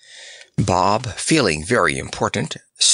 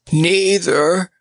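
sorrowful croak; 7 semitones higher, 4 dB louder than usual. Acted. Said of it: "croaked Snorer sorrowfully".

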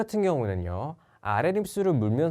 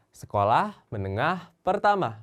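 sekolah menengah pertama said very slowly syllable by syllable; slow and clear; 2 semitones higher, much slower than usual. Shown as a demonstration. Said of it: "되게 길죠?". (아주 천천히 또박또박)

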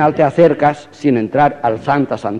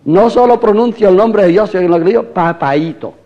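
bold voice of Jesus; 5 semitones higher than usual. Acted. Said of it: "el guapo del siglo, y dice".

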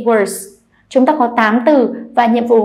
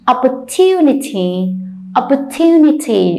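"opportunity" with stress on the TU syllable; teacher's clear model of "opportunity", TU stressed; stress before suffix. Shown as a demonstration. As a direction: lean on the third syllable of "opportunity". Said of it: "đánh dấu trọng âm vào âm tiết đứng trước nó".

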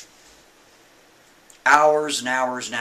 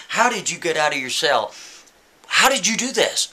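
rising to a louder, higher demand; lightly voiced officer getting louder; mock demanding shout; 5 semitones higher, 4 dB louder than usual. Officers demanding the prisoner explain, a building mock shout.

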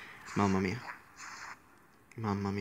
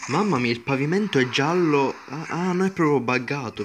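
louder laughing exclaim at the bug; amused disbelief; 3 semitones higher, 5 dB louder than usual. Real, not acted. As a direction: cry out at the broken game. Sees glitched yellow floor.

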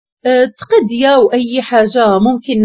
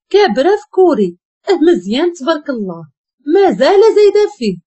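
mocking echo, higher and fast; sarcastic echo; 4 semitones higher than usual. Wife mocking the secretary's own words back, sarcastic and fast. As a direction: throw her words back at her with scorn.

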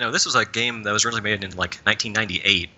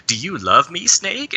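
higher, mock-seductive voice rising sharply on Snake; weird seductive voice; 8 semitones higher, slower than usual. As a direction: lightly ham up a creepy come-on. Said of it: "talking in this really weird voice".

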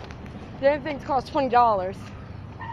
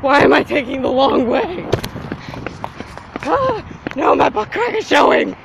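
frantic exclaiming. Real, not acted. Running, panicked and loud.

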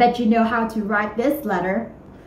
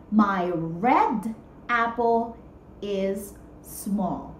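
slow model sentence; 4 semitones lower, 8 dB quieter, much slower than usual. Shown as a demonstration. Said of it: "teacher models sentence slowly".

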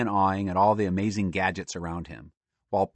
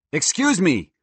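high, loud squirrel; eager squirrel demanding attention; excited interruption; 8 semitones higher, 5 dB louder, slower than usual. Acted. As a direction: butt in brightly, pitched up.

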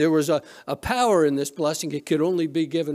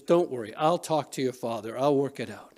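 lower, softer retold reassurance; mild motherly calm, pitched down; reassuring mother; 4 semitones lower, 4 dB quieter than usual. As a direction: soothe an upset daughter. Mother reassures her upset daughter.

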